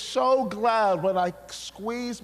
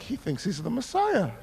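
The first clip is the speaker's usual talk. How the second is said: amused thought; 2 semitones higher, 3 dB quieter than usual. Retold or imitated. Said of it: "And I'm like".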